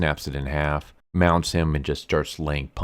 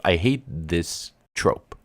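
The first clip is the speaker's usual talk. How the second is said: slow, drawn-out I hate this trope; correcting himself, hate stretched out slowly; stress on hate; much slower than usual. Real, not acted. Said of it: "I don't wanna say I hate characters".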